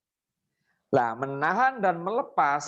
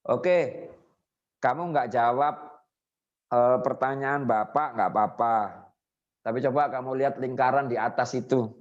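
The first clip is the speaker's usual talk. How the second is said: a lower, reassuring hypnotist voice; gentle induction demo; 4 semitones lower than usual. Shown as a demonstration. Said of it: "paling simpel, Pak ya, induksinya itu".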